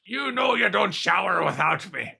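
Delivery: lightly voiced demanding wife; hammed-up clingy wife; mock wife voice. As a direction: whine "husband" at him, half joking. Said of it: "That is not what your wife sounds like".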